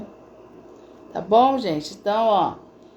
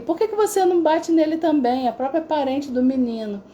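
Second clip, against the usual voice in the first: higher-pitched, mildly acted urging; quoted nudge, pitched up; urging relative; 7 semitones higher than usual. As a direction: lightly voice a relative egging a child on. Relative urges son to hit back.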